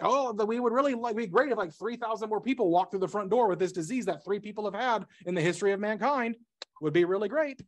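mock-wishful, voice lifted a little; sarcastic. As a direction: say it with tongue-in-cheek enthusiasm. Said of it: "that's sarcasm".

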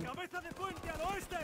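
loud battle command; shouted order. Acted. (orden gritada)

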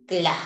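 "Cla" en un solo golpe de voz; consonantes pronunciadas juntas. Shown as a demonstration. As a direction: say "Cla" with C and L fused as one sound. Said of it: "se pronuncia con ellas en un solo tiempo". ("Cla", c y l juntas, como una sola letra)

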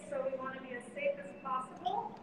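muffled through a face mask. Real, not acted. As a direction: speak from behind a mask. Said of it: "I have to have my mask on".

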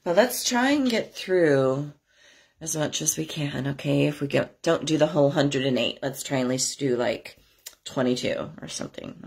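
hoarse, stuffy cold voice; stuffy scratchy voice. Real, not acted. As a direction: talk through a scratchy throat. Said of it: "my stuffy and scratchy voice".

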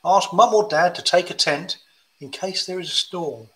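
gentle rhyming storybook read; reading to children. Acted. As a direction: read it like a bedtime picture book. Reads hill walking rhyme.

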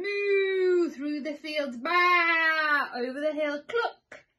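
loud high cries of moo, baa, cluck; excited shouting chase. A narrator's reading. Animals chase the farmer off, crying out loudly. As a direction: holler the chase across the fields.

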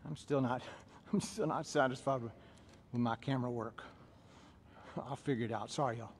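low, soft mumble to oneself; quiet aside. Real, not acted. Trainer apologising to class about camera work, quiet aside.

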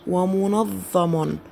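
ومنظم very slow, the doubled ظ held long; slow drilled ومنظم; slow model word. Shown as a demonstration. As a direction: lean on the shadda in ومنظم slowly. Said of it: "لاحظوا الشدة على حرف الظاء".

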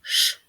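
Ш as a lone hush; Ш hushed, with no vowel after it; isolated sound. Shown as a demonstration. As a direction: sound out Ш by itself. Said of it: "Третій звук".

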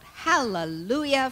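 a joyful church shout; shouted hallelujah. Acted. Poet calling out to the audience mid-poem, loud ecstatic shout. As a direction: burst out loud and high on Hallelujah. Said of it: "the shout".

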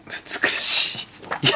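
slow, hushed admiration; whispered awe; breathy whisper of awe. Real, not acted. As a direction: breathe the word out in wonder. Admiring bike photo.

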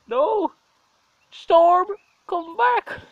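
loud, high yell after the cat; frantic loud call. Real, not acted. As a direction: shout for the cat to come back. Calling after cat running off.

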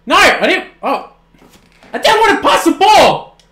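very high, loud outcry; real gamer meltdown; anguished yell. Real, not acted. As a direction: scream it at the controller. Wrong button in the game.

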